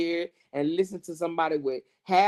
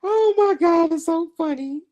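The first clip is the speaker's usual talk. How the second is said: laughing hard; 12 semitones higher, 8 dB louder than usual. Real, not acted. Laughing at the rival.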